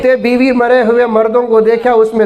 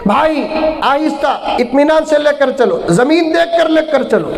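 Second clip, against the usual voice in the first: fussy mourner; 4 semitones higher than usual. Retold or imitated. Widower fussing over the bier. (ऊँची, धीमी मिन्नत भरी आवाज़)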